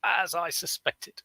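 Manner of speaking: high, slow mock triumph; smug gloating. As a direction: savour it like a little victory. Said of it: "And I was like".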